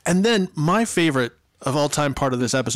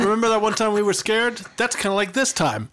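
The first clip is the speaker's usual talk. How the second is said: mock comforting; 5 semitones higher, faster than usual. Mocking Zach's comfort.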